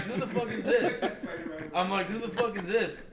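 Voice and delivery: high, loud, half-laughing who-is-this; retelling a yell at an unknown caller, amused; annoyed yell. Retold or imitated. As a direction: bark it at a prank caller, laughing.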